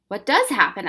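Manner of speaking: choked, strained voice; strangled voice. Acted. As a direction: squeeze the words out. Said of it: "asked Ben in a strangled voice".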